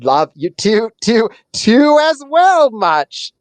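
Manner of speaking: high, slow, skipping robot voice; glitching possum. Acted. GM voicing the possum after the ogre's punch, glitchy stutter. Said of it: "And he goes".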